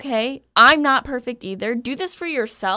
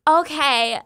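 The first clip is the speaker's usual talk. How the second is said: higher, performed influencer "okay"; Instagram girl voice; 4 semitones higher than usual. Acted. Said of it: "in my best Instagram girl vo-, voice".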